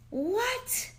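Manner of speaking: high gasping what?; real shock at the scan; gasp of surprise. Real, not acted. Showing viewers her after scan, gasping in surprise.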